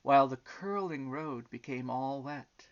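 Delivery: lilting, emphatic storybook narration; story reading to children. A narrator's reading. Reading the elephant and butterfly story aloud, storytelling. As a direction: read it out with sweeping pitch on key words.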